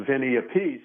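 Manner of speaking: "Appice" mistakenly stressed on a final PEECE. Retold or imitated. Drummer recalls being misintroduced, "Appice" said a-PEECE. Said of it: "he introduced me as".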